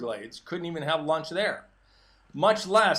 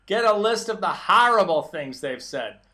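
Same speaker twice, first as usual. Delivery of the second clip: a light, hammed-up posh British Queen's accent, louder; mock Queen's accent; 6 dB louder than usual. Mocking the president's tweet in a put-on Queen's accent. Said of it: "I'm gonna say it like him in his Queen's accent".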